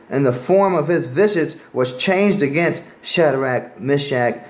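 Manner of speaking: preacher reading scripture to the street crowd. Acted. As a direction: read the King James verse aloud with weight. Rereads the verse and continues.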